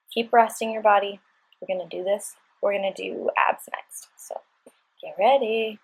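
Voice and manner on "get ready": normal talking voice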